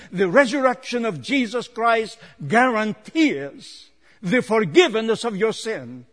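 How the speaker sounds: building, emphatic preacher's cadence; forceful preaching. Real, not acted. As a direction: press each point home from the pulpit.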